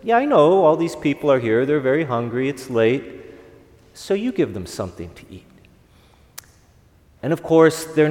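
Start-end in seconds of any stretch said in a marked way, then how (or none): 0.0-5.5 calmly but firmly. Acted. Jesus calmly telling the disciples, lightly firm. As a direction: settle it plainly, no fuss. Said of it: "very calmly but firmly says".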